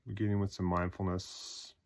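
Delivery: short phrases, each left to settle; guided meditation. Acted. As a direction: guide them through a body scan, unhurried.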